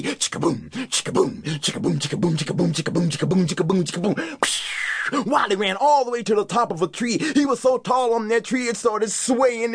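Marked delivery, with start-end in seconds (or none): none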